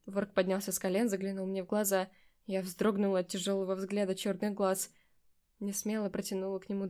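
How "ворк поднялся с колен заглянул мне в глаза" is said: ordinary delivery, nothing marked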